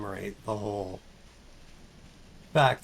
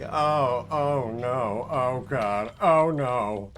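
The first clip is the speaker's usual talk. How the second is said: louder, spiralling oh-no panic; mock panic; 3 dB louder, much slower than usual. Streamer imitating herself spiralling into worry. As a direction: wind yourself up in mock worry. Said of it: "being like".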